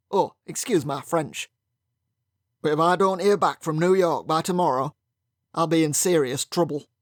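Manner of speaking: a hint of a hearty Yorkshire accent; loud Yorkshire brogue. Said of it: "loud Yorkshire brogue".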